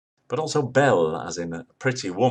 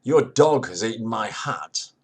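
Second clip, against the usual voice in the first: higher, louder indignant cry; indignant victim; 4 semitones higher, 5 dB louder than usual. Retold or imitated. Man complaining to the dog owner, indignant. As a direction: protest like the hat's owner. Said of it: "the original victim says".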